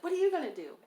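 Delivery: high, loud mock girly voice; a bright high-pitched put-on voice of the other girl; hammed-up high coworker voice; imitating her coworker. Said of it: "She was like".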